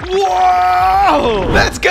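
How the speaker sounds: high, loud whoop; excited cheer. Pretend. Diving inside to become tío Paco, excited whoop. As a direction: whoop as you launch yourself in.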